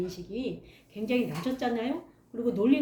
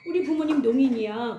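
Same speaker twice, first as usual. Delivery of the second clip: proud declaration; 3 semitones higher, 6 dB louder than usual. Retold or imitated. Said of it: "친구한테 제가 말하기를".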